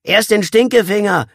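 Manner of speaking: high, loud jeering shout; rowdy boy's yell; calling out. A narrator's reading. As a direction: shout it out to egg him on. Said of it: "rief der picklige Junge".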